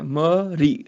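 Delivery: "ਮਰੀ" split as ma, ri; broken into sounds. Shown as a demonstration. Teacher breaks down the syllable, "ਮਰੀ" as ma-ri. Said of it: "ਰਾਰੇ ਨੂੰ ਸਿਹਾਰੀ ਹੈ".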